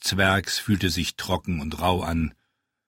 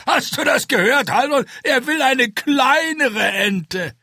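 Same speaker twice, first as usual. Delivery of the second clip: much higher, louder, still shouting with laughter; laughing; 6 dB louder than usual. A narrator's reading. Ente laughs to Haldon about the smaller duck, loud and gleeful. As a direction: cry it out through the laughter. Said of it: "brüllte vor Lachen".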